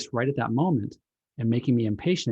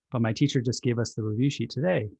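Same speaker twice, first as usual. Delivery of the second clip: put-on a mildly exasperated kid explaining; a touch of a fed-up child. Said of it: "The child is a little exasperated".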